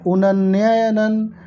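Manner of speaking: slow, halting sound-by-sound spelling of उनन्ययनन; sounding out the word. Shown as a demonstration. Teacher to exam students, slowly sounding out उनन्ययनन. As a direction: drag out उनन्ययनन while working it out. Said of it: "हाँ, ये शब्द होगा दोस्तों".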